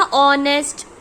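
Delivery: ऑनेस्ट starting straight on an open O vowel; silent h in honest. Shown as a demonstration. Teacher showing students the O sound, ऑनेस्ट said without h. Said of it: "ओ की sound आ रही है ना".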